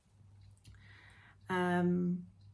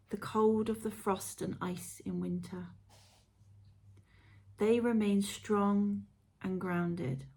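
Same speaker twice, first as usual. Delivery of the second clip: guided meditation. Acted. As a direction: read it like a gentle guided visualisation.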